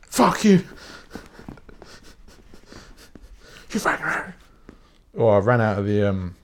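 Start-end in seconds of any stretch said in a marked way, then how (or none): 0.0-4.3 shout. Retold or imitated. Kid yelling at a shopper who barged into him. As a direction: bellow it at the shopper. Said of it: "I'll be like".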